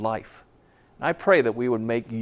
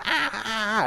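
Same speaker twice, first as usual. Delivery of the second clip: mock scream; 10 semitones higher than usual. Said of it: "he starts screaming".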